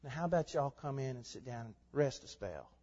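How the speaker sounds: mock-casual Southern hospitality; casual folksy invitation. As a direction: invite them in casually, no urgency. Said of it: "as though Jesus is saying".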